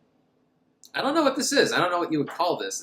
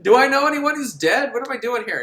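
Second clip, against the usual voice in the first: higher, louder, laughing bewildered voice; mock confused girl; 8 semitones higher, 7 dB louder than usual. Girl wandering the mausoleum, confused laughing voice. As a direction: ask like a lost girl in a bad movie. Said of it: "there like".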